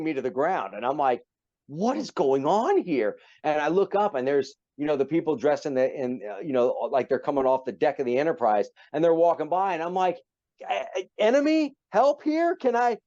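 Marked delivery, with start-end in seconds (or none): 1.7-3.2 high, slow and baffled; bewildered. Retold or imitated. Confused while being wrestled. 10.6-13.0 high, stammering call for help; panicked plea. Retold or imitated. Calling for help while pinned.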